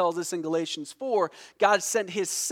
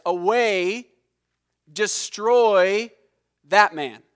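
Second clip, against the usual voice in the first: loud mob cry, pushing up in volume; crowd shouting; 6 dB louder than usual. Retold or imitated. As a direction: shout it like an angry crowd demanding. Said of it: "That's what they shouted".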